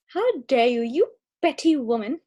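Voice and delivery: put-on offended, lightly British accent. Offended host to co-host, slipping into British accent. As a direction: scold in a hint of British. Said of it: "she's sounding British".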